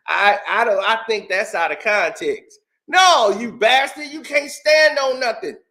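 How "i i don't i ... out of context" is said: lightly imitated excuse-maker, pitched low; mock denial. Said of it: "He denies he even said it".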